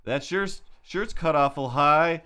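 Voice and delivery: a hint of a sleazy guy yelling from a car; creepy catcaller. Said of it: "just like".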